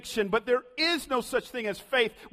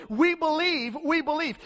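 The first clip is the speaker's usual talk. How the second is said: eager crowd; 7 semitones higher than usual. Acted. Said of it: "The crowd responded".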